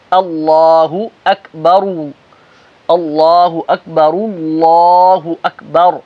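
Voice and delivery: اللہ اکبر slow, heavy lam, light hamza; slow deliberate takbir; careful اللہ اکبر. Shown as a demonstration. Teacher demonstrating correct takbir. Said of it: "اس طریقے سے".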